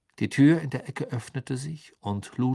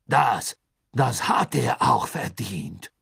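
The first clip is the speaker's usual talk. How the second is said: slow, halting panic; panicky; 5 dB louder, slower than usual. A narrator's reading. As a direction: stammer it out in a panic. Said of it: "mit einem deutlichen Anflug von Panik in der Stimme".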